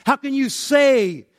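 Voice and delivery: high, loud challenge; loud, incredulous protest; indignant objection. Acted. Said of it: "saying in objection to his teaching".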